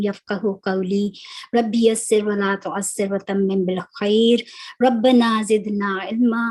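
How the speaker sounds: measured Arabic opening invocation; prayer recitation. Real, not acted. (दुआ की तिलावत)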